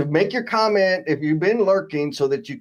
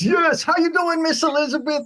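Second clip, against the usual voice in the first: much higher, sing-song greeting voice; reading a viewer's greeting; 13 semitones higher than usual. Retold or imitated. Host reads a viewer's friendly hello to the guest, in a bright, much higher sing-song voice. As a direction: chirp the greeting up high like a cheerful viewer. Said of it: "Miss Elizabeth says".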